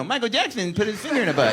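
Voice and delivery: light imitation of a late-night host reading a joke; Jay Leno impression. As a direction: toss it off like a monologue gag. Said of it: "Oh, is that an impression?".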